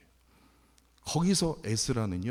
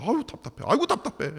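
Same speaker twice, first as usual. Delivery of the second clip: high-pitched frustrated groaning; acted-out "oh, so frustrating" moan; exasperated; 8 semitones higher, faster than usual. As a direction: imitate fretting aloud to yourself. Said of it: "제가 막 감정이입이 돼갖고요".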